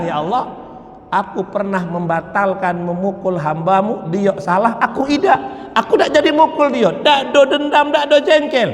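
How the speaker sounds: pleading prayer. Retold or imitated.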